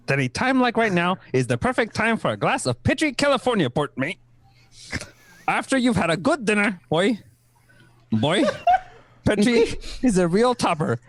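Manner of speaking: put-on Kiwi accent.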